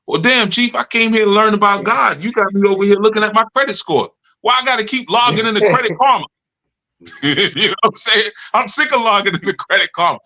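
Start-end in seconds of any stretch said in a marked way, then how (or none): 0.1-6.3 higher, quick griping student voice; mock complaining student. New member griping to the teacher, higher fast mock complaint. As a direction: rattle off the gripes like a fed-up newcomer.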